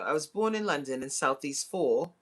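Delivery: lightly put-on London accent; a hint of London British. Shown as a demonstration. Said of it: "I also do a British accent".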